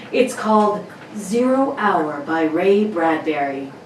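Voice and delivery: put-on old-time radio announcer read; dramatic announcer voice. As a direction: present the show like a 1950s announcer. Announcer reads radio intro.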